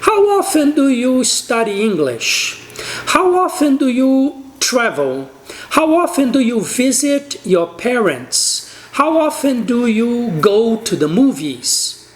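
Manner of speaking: slow, clear how often questions; slow model questions. Shown as a demonstration. Teacher demonstrates questions to students, slowly. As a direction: lay each question out slowly for the class. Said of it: "Então, uma pergunta seria".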